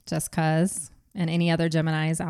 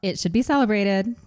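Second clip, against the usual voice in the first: expressive reading; 3 semitones higher than usual. Shown as a demonstration. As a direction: lively reread with a rising tune. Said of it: "That sounds less robotic".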